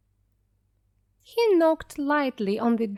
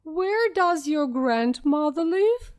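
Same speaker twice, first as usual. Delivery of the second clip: softest voice; 6 semitones higher, 4 dB louder than usual. A narrator's reading. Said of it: "He put on his softest voice".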